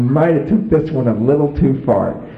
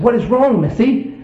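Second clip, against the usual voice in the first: concerned; 13 semitones higher than usual. Retold or imitated. Husband asks his sobbing wife.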